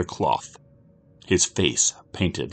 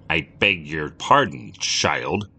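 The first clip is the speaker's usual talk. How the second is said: annoyed; 3 semitones lower, slower than usual. Acted. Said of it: "in an annoyed voice".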